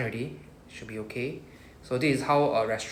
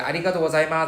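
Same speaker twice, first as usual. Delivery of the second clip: polite restaurant staff; 4 semitones higher, 7 dB louder, faster than usual. Retold or imitated. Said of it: "they'll be like".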